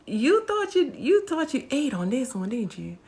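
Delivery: high mocking taunt. Real, not acted. Taunting the poster about her video, high and mocking. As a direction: needle her for thinking she won.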